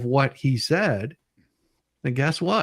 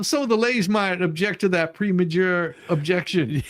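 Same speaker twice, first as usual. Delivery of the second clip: laughing; 4 semitones higher than usual. Real, not acted. Joking about premature objection.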